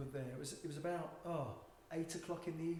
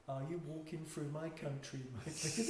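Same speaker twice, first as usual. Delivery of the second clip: put-on Dutch accent; 5 dB quieter than usual. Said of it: "Is that your Dutch accent".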